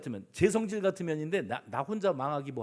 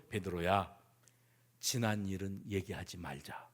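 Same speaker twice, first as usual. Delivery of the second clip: low, soft, reassuring; tender forgiveness; 9 semitones lower, 7 dB quieter than usual. Acted. Jesus forgives Peter for past denials, tenderly hushed.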